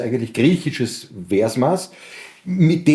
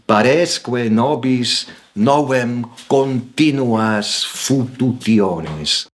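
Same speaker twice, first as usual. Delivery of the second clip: measured Latin verse, slowing towards the end; Latin poem recitation; slower than usual. Acted.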